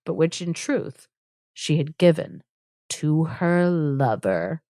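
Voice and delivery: measured read-aloud storytelling; formal narrator delivery; story narration. A narrator's reading. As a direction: read the tale out, slowing toward the reveal. Reads the tale's text aloud.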